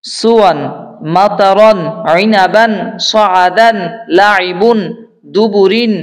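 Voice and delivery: measured chanted word list, each word separate; word recitation without spelling. Shown as a demonstration. Teacher reading words whole for learners to hear, chanted recitation. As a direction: intone every word evenly with a lifted final syllable. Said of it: "উচ্চারণ করে পড়ব ইনশাআল্লাহ".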